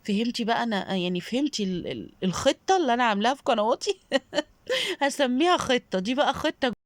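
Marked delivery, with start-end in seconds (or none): 5.0-6.7 laughing. Real, not acted. Laughs at her own word.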